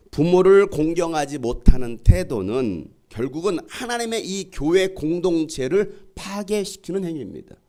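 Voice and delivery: earnest, emphatic sermon delivery; forceful preaching. Real, not acted. Pastor warning the congregation about dishonouring parents, forceful preaching. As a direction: preach it with conviction.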